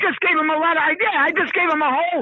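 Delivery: rushed comic grievance, stumbling over the words; touched a nerve. Real, not acted. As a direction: grumble like someone upstaged. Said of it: "I touched a nerve".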